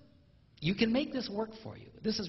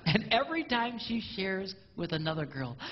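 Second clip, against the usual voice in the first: normal talking voice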